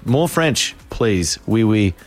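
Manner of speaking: mock French accent. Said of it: "And she said that in a French accent".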